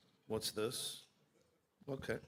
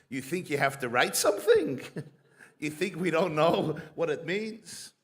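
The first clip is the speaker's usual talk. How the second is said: louder, laughing through the judge's retort; mocking laugh; 5 dB louder than usual. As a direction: chuckle while delivering the sneering reply.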